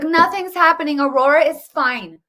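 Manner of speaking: mocking the mainstream media. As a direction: sarcastically parrot the news anchors. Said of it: "the mainstream media is like".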